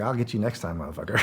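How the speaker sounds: soft, laughing mock threat; laughing taunt. Teammate jokingly promising revenge, laughing quietly. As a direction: tease him through a laugh. Teasing a teammate after losing.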